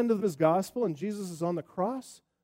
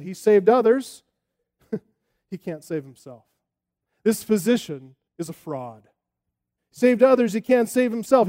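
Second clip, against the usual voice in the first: mocking priests; 2 semitones higher, 8 dB louder than usual. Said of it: "and they mocked him too".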